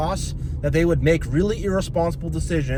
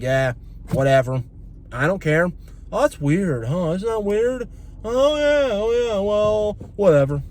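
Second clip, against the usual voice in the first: mock dismissive shrug; 4 semitones higher than usual. Mimicking dismissive family.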